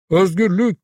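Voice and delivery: high, fervent shout; rallying cry. A narrator's reading. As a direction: hurl it at the crowd like a battle cry. Savage rallying the crowd.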